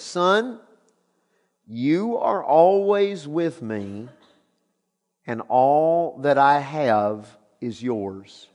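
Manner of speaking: slow, gentle reply; tender father. Acted. Father gently reassuring his resentful older son.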